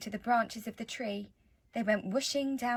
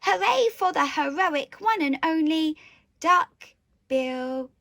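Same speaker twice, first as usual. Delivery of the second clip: high, loud triumphant cheer; hooting happily; 5 semitones higher, 8 dB louder, slower than usual. A narrator's reading. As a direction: hoot a hip-hip-hooray. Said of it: "They hooted".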